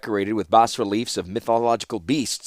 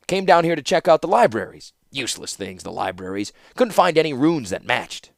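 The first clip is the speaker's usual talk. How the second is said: lightly voiced Felden; 3 semitones higher than usual. Scholar complaining to a visitor about useless libraries, lightly voiced.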